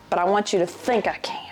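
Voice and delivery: a sly whisper to the camera; whispered aside. Real, not acted. Whispering a joke to viewers about looking tough.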